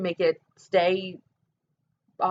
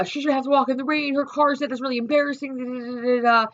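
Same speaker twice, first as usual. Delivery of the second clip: mocking mimicry; 4 semitones higher than usual. Mimicking sister-in-law's complaint.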